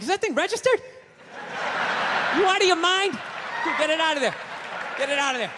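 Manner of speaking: high, disbelieving friend; incredulous buddy. Retold or imitated. Friend scolding about the gun, lightly voiced disbelief. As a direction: pitch it up like a shocked pal. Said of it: "dude would have been sitting there going like".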